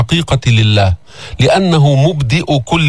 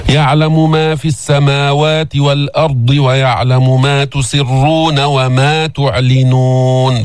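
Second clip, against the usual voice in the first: slow drawn tajweed chant; Quran recitation; slower than usual. Shown as a demonstration. Teacher recites the verse to the class, slow chant. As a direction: draw out the endings calmly.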